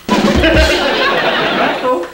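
high, cheeky puppet voice; a wisecracking little dummy; squeaky ventriloquist dummy. Acted. Dummy calls partner.

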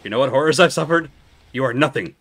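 mock indignant tirade. Mock tirade at a game enemy.

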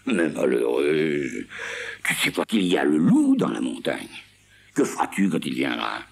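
avertir, lent au début puis plus fort; Seguin alarmé. Acted. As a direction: mise en garde grave. (Seguin met en garde contre le loup)

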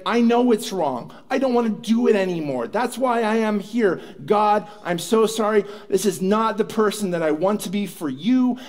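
mildly acted, emphatic plea; earnest repentance. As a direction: plead your regret, lightly dramatized. Woman repenting, apologizing to God.

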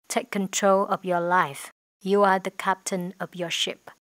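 slow, careful English read for learners; slow model reading. Shown as a demonstration. Teacher reads the model sentence slowly to students. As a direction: lay out each word clearly. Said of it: "teacher models English phrase".

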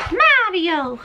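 Mario sung out high and bright, pitch leaping up; drawn-out Mario. Shown as a demonstration. To the viewers, showing off the Mario bag, a high playful Mario. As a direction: call out Mario playfully, stretching the name high. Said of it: "I don't know why I say it like that".

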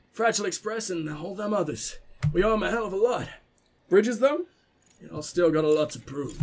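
put-on southern accent for an old man; southern elder. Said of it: "make him sound a bit more southern".

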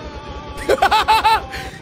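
high-pitched real laugh; burst of laughter. Real, not acted. Viewer seeing him ride on Pooh, high laughter. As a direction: crack up mid-sentence, high in pitch.

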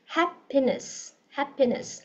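"Happiness" said slowly with short clipped i. Shown as a demonstration. Teacher modelling vowel for online class, slow and clear. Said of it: "không có y ngắn nha".

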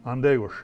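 "Andegos" clearly spoken, stress on the first syllable and falling; Ojibwe word. Shown as a demonstration. Elder teaching kids the Ojibwe word for crow. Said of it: "you wanna make fun of them, you say".

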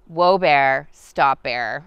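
loud, commanding call of whoa, bear, stop, bear; firm shout at a bear. Shown as a demonstration. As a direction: shout the bear down firmly, without panic. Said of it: "the training I received was like".

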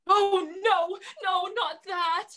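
high, loud frightened begging; fearful plea. Acted. Dragon begs the children not to yell, afraid. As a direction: beg them not to.

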